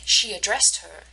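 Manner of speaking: "addressed" with stress on DRESSED; weak first syllable, strong second in "addressed". Shown as a demonstration. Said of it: "is on the second syllable".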